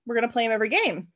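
Billy insisting. Retold or imitated. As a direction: shout him down, no way. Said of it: "He's like".

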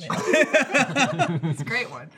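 slow, drawn-out silly voice; little sausage voice. Shown as a demonstration. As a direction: stretch it out in a goofy voice. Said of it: "your little sausage voice".

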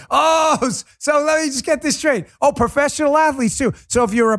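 incredulous shouting at the exemptions; outraged shout. Real, not acted. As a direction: yell it in disbelief.

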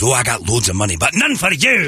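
a hint of a Scottish voice, rising on the put-down; lightly voiced blunt put-down; Scottish friend's retort. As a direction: friend snubbing a beggar to his face, mildly mocking. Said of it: "right in his face, goes".

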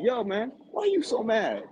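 retold taunt. Retold taunting of angry fan.

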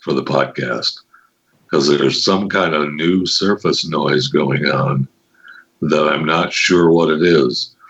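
low, slow, close to the mic. Pretend. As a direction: lean in and purr it low and slow. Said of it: "I'm gonna have to talk like this".

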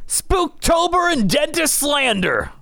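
high, slow proclamation; drawn-out, high-pitched all-caps announcement; all-caps reading. Acted. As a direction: declaim it as if every word were capitalized. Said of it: "this is all in caps".

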